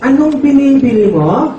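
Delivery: mild mock father; father's voice. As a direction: ask like a confused shopkeeper. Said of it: "Sabi ng tatay".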